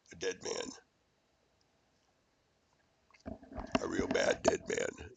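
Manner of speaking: slow, breathy whispered threat; menacing whisper. Real, not acted. Ranting man whispers a threat at his enemy, menacing whisper. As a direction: hiss it low and slow like a threat.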